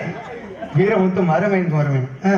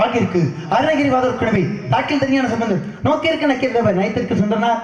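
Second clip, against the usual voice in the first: lightly raised, chanted recital of a praise verse; 2 semitones higher than usual. Acted. Narada recites his titles to the clown, lightly chanted. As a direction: declaim it like a stage sage.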